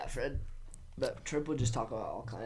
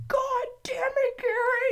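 imitated furious scream; slow, high-pitched hammed-up yell; Trip; 4 dB louder, much slower than usual. Boss erupting at worker over the phone, imitated scream. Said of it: "He starts screaming at me".

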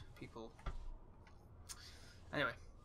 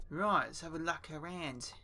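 a touch of mock Cockney; lightly imitated London Cockney; Cockney accent. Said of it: "we have to do a Cockney accent".

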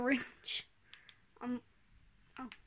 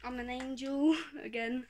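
slow proud angel line; 6 dB louder than usual. Pretend. Bright light, slow repeat.

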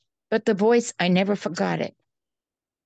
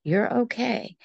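soft, soothing reassurance; most peaceful voice; 4 dB quieter, slower than usual. Retold or imitated. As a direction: murmur it gently to calm a frightened child. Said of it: "in the most peaceful voice".

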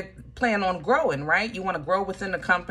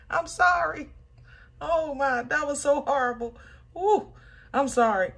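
higher, still giggling through the sorry; laughing apology; 7 semitones higher than usual. Real, not acted. Reader apologising to Leo while still laughing. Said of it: "I'm laughing".

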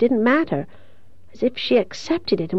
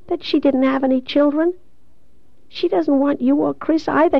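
put-on higher-pitched voice of a hurt young woman; weak, wounded Carrie; 6 semitones higher than usual. Dying Carrie telling Kathy their mother denied her, hurt. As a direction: confide it in a high, hurt voice.

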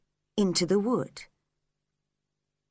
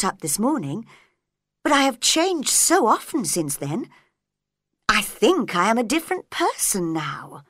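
put-on puzzled little girl answering; young girl voice. Alice answering caterpillar.

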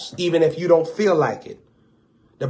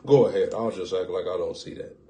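Father overlooking; 8 semitones lower, 7 dB quieter than usual. Retold or imitated. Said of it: "the Father said".

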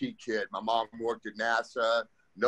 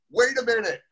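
higher, louder mock mom, stopping him short; alarmed mom; 8 semitones higher, 3 dB louder than usual. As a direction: play the mom who suddenly says no. Mom refusing at the airport.

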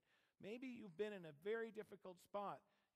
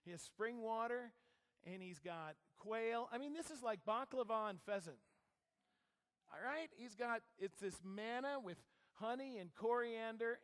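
louder, building enthusiasm over the food; excited preaching; 5 dB louder than usual. Real, not acted. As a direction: sell how lavish the feast was. Preacher raving about desert feast.

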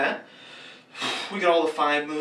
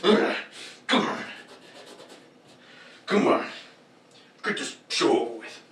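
Azrael impression; 4 semitones higher than usual. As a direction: drag it out like a bored villain, breathy. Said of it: "he just goes".

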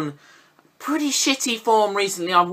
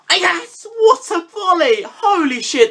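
very high, loud cheer; real loud, high celebrating shout; jubilant celebration; 12 semitones higher, 5 dB louder, slower than usual. Real, not acted. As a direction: yell in triumph at the goal. Müller scores volley.

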